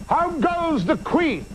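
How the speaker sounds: Macbeth. Retold or imitated. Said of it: "Macbeth turns and he says".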